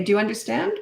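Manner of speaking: even question, lifting at the end; calm check. Shown as a demonstration. Parent checking a child understood, calm rising question. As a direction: check understanding without any anger. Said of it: "That's my tone".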